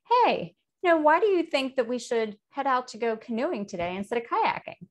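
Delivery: bright rising curious question. Shown as a demonstration. Teacher demos a curious-sounding question. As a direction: ask it with open interest. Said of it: "Maybe it sounds curious".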